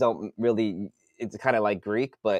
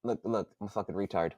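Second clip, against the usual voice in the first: self-mocking; 3 semitones lower, 11 dB quieter, faster than usual. Real, not acted. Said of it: "That was dumb".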